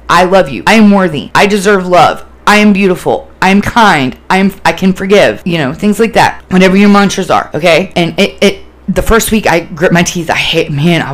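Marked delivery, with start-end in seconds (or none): 0.1-5.4 clear, deliberate mantra; evenly spoken self-affirmations; affirmation said aloud. Shown as a demonstration. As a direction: declare each one out loud. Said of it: "Verbally say it out loud".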